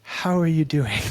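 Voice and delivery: laughing imitation of a mixed Armenian-Russian accent; Arpita. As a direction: put on a muddled foreign accent and crack up. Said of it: "she's got this crazy Armenian, Bulgarian, semi-Russian Italian accent".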